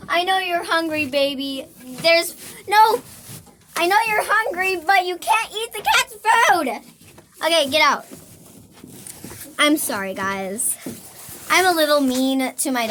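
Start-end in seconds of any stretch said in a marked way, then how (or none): 2.0-6.7 louder, quick firm scold. Real, not acted. Stopping her hungry dog eating cat food, firm scold. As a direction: tell the dog off fast.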